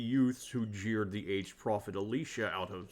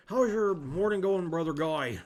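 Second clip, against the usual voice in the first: cheery greeting; 6 semitones higher, 6 dB louder than usual. Acted. Player voices Andreas greeting monk.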